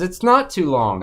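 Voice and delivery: mocking repeat of his whine; mimicking cohost. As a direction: parrot it back in his voice. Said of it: "where George says".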